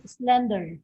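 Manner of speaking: SLEN stressed in "slender"; stress on first syllable. Shown as a demonstration. Teacher repeating the adjective for students, first-syllable stress. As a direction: put the weight on SLEN in "slender". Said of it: "stress here is found in the first".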